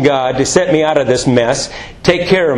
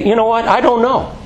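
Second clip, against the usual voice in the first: honest admission; 5 semitones higher than usual. Pretend.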